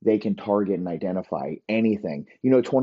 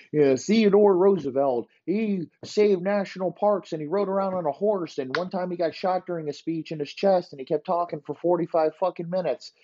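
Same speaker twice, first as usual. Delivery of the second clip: mock textbook blurb; 8 semitones higher than usual. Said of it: "a little blurb like".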